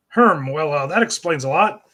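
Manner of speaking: a hint of Ren's accent, with a loud "Oi, oi"; lightly put-on Ren accent, slowing at the end. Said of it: "Ren's accent here".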